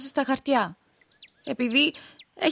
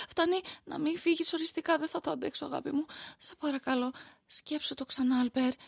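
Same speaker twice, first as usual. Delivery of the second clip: much softer, broken begging; desperate plea; 7 dB quieter than usual. Acted. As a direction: beg him quietly not to go. Wife begs husband not to leave. (ικετευτικά, σχεδόν ψιθυριστά)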